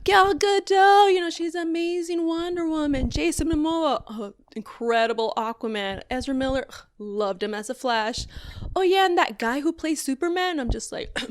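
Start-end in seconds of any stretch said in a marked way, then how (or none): 0.1-8.2 mock gushing over the cast; gushing fans. Fans praising every other DC star, gushing. 8.7-10.6 high "oh, yeah", then tossed off; mock fan forgetting the name; offhand afterthought. Fans adding the one actor they can't name, offhand.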